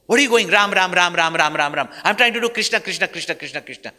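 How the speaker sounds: loud, exasperated complaint, fading out; irritated outburst. Retold or imitated. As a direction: snap at the monkey, then trail into chanting. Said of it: "Arjuna just said".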